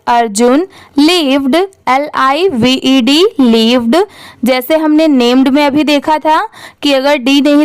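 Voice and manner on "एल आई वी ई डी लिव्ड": slow spelling. Shown as a demonstration. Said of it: "spelling drill".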